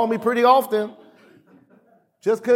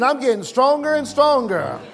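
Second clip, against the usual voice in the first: raised, emphatic affirmation; meant declaration; 4 semitones higher than usual. Shown as a demonstration. Preacher has congregation say it like they mean it, emphatic declaration. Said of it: "Say it like you mean it".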